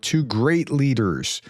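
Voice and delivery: slow phrase with "great" drawn out; stress on great. Shown as a demonstration. Commentator pointing out the envoy's wording, stress on "great". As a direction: take it slowly and lean hard on "great". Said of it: "the stress on the word great here".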